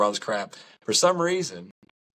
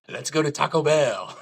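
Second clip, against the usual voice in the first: excited; 6 semitones higher than usual. Retold or imitated. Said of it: "all of a sudden I hear".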